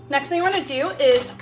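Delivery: talking while chewing; words round a bite of food; mouth full. Real, not acted. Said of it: "I'm totally talking with my mouth full".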